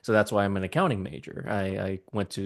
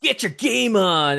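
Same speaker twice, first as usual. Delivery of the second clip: catchphrase impression; 10 semitones higher, 4 dB louder, slower than usual. Quoting Jaden's catchphrase from dub.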